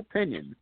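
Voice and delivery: "opinion" with a full long OH to start; stressed first vowel. Retold or imitated. Quoting Wade's odd pronunciation, leaning on the OH. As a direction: say "opinion" as OH-pinion. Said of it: "he says opinion".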